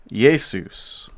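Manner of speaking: Jesus said yay-SOOS, stress on the second half; Greek Jesus. Shown as a demonstration. Teacher shows the Greek Jesus, yay-SOOS with the end stressed. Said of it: "with the emphasis on the, the latter half".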